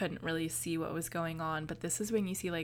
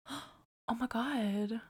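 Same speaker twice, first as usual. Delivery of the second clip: shocked realisation; 5 semitones higher than usual. Retold or imitated. Viewer retelling the moment she caught the foreshadowing, shocked realisation. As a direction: act out stunned disbelief.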